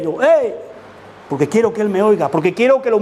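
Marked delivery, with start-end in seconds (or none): 0.2-0.5 loud worship shout. Shown as a demonstration. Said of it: "no grites tanto".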